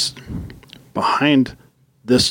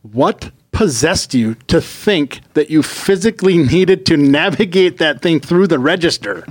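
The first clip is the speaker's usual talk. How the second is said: higher, emphatic exasperated demand; indignant rant; 5 semitones higher than usual. Real, not acted. Ranting at the scooter shopper about the register, indignant. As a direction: rant it out in rising disbelief. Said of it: "rant over".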